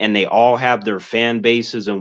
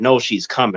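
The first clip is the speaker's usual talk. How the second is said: ordinary talk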